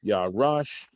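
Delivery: Yarash with the weight on RASH; accent on last syllable. Shown as a demonstration. Teacher showing where the accent falls, Yarash stressed on RASH. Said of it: "the accent's falling that".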